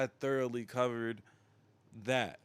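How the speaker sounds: talking through hiccups; words broken by a hiccup. Real, not acted. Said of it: "got the hiccups".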